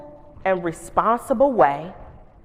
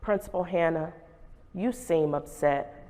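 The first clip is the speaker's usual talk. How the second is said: calm student voice; 5 semitones lower, 9 dB quieter than usual. Retold or imitated. Calm student answering the principal.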